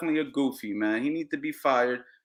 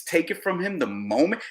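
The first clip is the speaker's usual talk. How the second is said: normal talking voice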